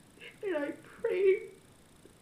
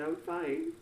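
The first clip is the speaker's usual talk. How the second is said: low; 12 semitones lower than usual. Retold or imitated. Much lower voice.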